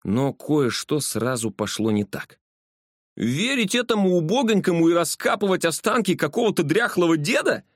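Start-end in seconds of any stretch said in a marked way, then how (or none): 3.2-7.6 high indignant outburst. Acted. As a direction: scoff at the idea, voice up high. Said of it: "возмущённо спросил Толстый".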